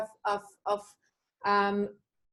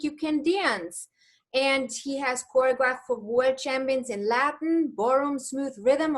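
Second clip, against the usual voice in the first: announcer introduction. Acted. Formal guest introduction.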